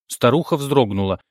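usual speaking voice

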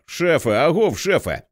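loud call across the crowd; calling out to the chief over the crowd. A narrator's reading. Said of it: "А тоді голосно".

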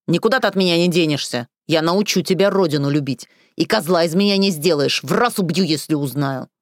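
loud, raging threats; furious threats. Acted. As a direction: bellow threats at her. Drunk ex threatening to kill.

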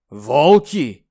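loud alarmed exclamation; alarmed cry. Acted.

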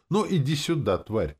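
mildly menacing through the teeth; through gritted teeth. A narrator's reading. Hero summoning the demoness for a beating, gritted teeth. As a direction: squeeze the threat out, starting high. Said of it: "процедил я сквозь зубы".

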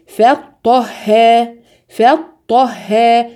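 فطها slowly with thin ف, heavy ط, thin ه; syllable drill. Shown as a demonstration. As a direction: drag each syllable of فطها. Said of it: "فا مرقق، طا مفخم". (فطها ببطء: فاء مرققة وطاء مفخمة)

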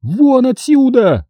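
high, drawn-out shout; a high woman's drawn-out yell to get out; Sonya yelling. A narrator's reading. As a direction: scream it at him, high and slow. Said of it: "заорала Соня".

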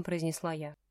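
ordinary delivery

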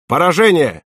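acted battle cry; urgent report. A narrator's reading. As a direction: call out the hit. Reporting a hit mid-battle.

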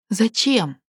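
mildly voiced painful question; pained bewilderment. A narrator's reading. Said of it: "недоумевала с болью".

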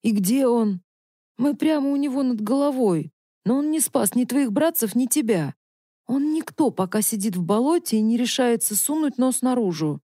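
bare your teeth and taunt him; sneering taunt. Acted. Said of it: "оскалился Смородник".

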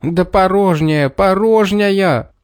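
high, drawn-out shout; boy shouting back while running from the beggar; shouting while fleeing. A narrator's reading. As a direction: cry it out as he runs. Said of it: "всё кричал".

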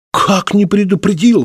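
high-pitched, startled protest; exclamation. A narrator's reading. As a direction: exclaim in disbelief at the accusation. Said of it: "воскликнул Клитий".

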